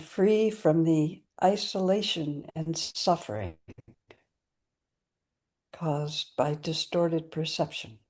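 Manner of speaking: unhurried, evenly intoned dedication; recited prayer. Real, not acted. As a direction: recite a solemn vow phrase by phrase.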